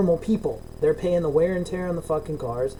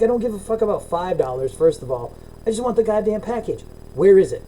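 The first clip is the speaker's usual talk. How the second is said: mildly heated re-enacted demand, punchy at the end; retold pissed-off complaint; 4 semitones higher than usual. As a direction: replay an irritated customer demanding his package. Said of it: "and I get pissed".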